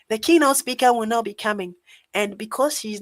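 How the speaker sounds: hint at a woman's voice, playful and not fully committed; lady's voice. Retold or imitated. Mimicking the usher who broke the news to him, in a mock lady's voice. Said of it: "let me do a lady's voice".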